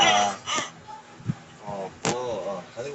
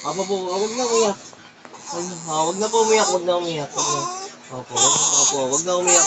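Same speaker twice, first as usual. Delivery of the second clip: urgent soothing; 3 semitones higher, 7 dB louder, much faster than usual. Real, not acted. Dad to crying baby not to cry, urgent soothing.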